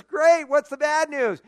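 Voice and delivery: loud, high, keen question; eager. Acted. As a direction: jump on the good news. Friend eager for news.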